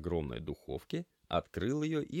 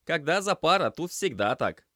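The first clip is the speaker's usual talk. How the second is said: raised voice; 11 semitones higher, 9 dB louder than usual. Acted. Semyon explaining over noise.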